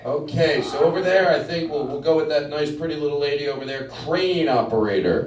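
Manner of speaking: cheesy improv comic. Acted. Comic asks the crowd to shout professions, in a cheesy showman voice. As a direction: sell it to the crowd.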